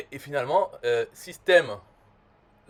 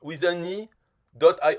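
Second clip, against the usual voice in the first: mock English speaker; 3 semitones higher, 3 dB louder, slower than usual. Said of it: "les Anglais disent".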